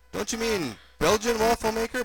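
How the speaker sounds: high-voiced kid butting in; blurting kid. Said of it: "blurted Gunga".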